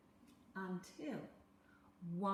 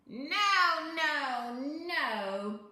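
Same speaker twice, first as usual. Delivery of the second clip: giggling; 6 semitones higher, 11 dB louder, much slower than usual. A narrator's reading. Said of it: "giggled the little man".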